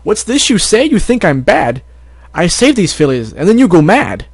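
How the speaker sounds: high, sing-song zebra healer defending herself; rhyming zebra voice. Acted. Zebra character speaks.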